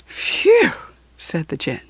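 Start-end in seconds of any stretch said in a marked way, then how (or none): 0.1-0.7 a short high whistle; whistling phew. A narrator's reading.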